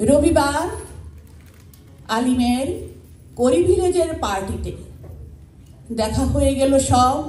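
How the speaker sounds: measured recital in short phrases with pauses; simple spoken verse, pausing between phrases; poem recitation. Acted. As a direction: recite your own poem to a gathering, phrase by phrase. Recites own poem to audience.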